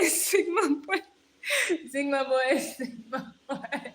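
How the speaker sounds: giggling through the repeated words; laughing. Real, not acted. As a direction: laugh helplessly as the chant repeats. Reading chat, laughing through it.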